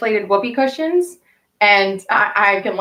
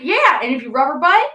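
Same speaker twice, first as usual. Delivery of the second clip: high playful banter; 6 semitones higher than usual. Retold or imitated. Joking banter.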